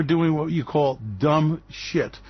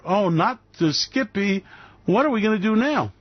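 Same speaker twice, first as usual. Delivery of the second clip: mock despair; 3 semitones higher than usual. Host mocking Skippy fans with pretend panic. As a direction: fake panic. Mock horror over peanut butter.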